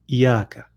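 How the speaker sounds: "iyaka" said short with a single y; don't linger on the ya in "iyaka"; "iyaka" without the doubled consonant; dropped shadda. Shown as a demonstration. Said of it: "they say iyaka".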